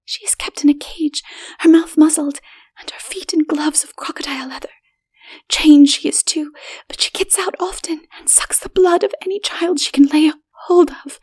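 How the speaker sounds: high, hushed whisper of a scared woman; frightened woman whispering. A narrator's reading. Stranger's companion warning him, hushed and frightened. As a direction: keep it secret and fearful.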